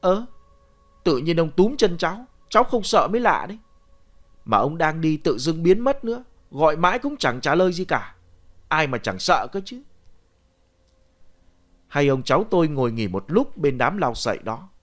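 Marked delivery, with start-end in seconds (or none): 0.0-9.8 mildly indignant protest; a touch of aggrieved boy; arguing back. Acted. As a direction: talk back to grandpa defensively. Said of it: "Tôi cãi lại".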